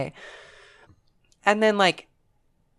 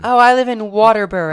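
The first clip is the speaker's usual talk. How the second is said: put-on higher, louder posh English accent; 4 semitones higher, 8 dB louder than usual. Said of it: "a posh English accent".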